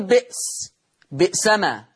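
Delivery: a glottal catch after the first vowel in بئس، بئسما; hamza pronounced. Shown as a demonstration. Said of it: "حكم الهمزة الساكنة إيه؟".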